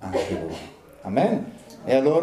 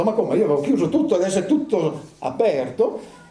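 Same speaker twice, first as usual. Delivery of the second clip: higher, alarmed disbelief; shocked jailer; 7 semitones higher than usual. Acted. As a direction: cry out in dismay at the open doors. Jailer discovers open prison.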